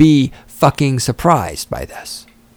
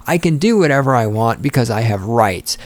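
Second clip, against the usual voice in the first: usual speaking voice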